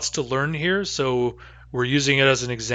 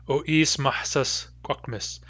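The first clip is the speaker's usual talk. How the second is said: slow demo pronunciation; slower than usual. Shown as a demonstration. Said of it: "The answer is yes".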